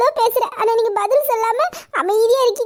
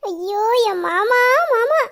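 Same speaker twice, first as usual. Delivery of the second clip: teasing laugh; much slower than usual. Acted. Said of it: "சிரிக்காதடி".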